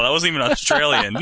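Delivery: normal talking voice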